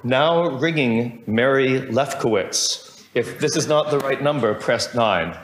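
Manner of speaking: slow, evenly spaced phone-system voice; computerized voice. Retold or imitated. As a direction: read it like an automated switchboard. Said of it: "the computerized voice would say".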